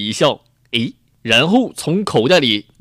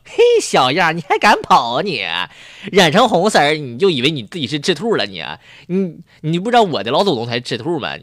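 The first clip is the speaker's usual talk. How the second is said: sneering; 2 semitones higher than usual. Acted. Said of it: "冷笑着".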